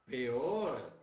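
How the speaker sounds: "pior" ending in a tight closed O; a teacher modelling the closed vowel. Shown as a demonstration. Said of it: "Vamos fechar também".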